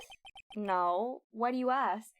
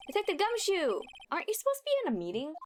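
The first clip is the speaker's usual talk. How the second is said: character voice; 7 semitones higher, faster than usual. Acted. Voicing a game character.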